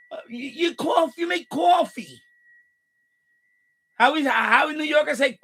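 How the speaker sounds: outraged scoff, voice pushed up; ranting shout. Real, not acted. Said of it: "here goes my rant".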